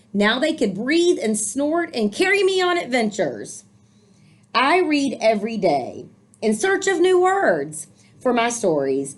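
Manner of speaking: put-on lively read-aloud for children; storybook reading. A narrator's reading. Teacher reading a picture book to young listeners, lively storytelling. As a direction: read the book warmly to the kids.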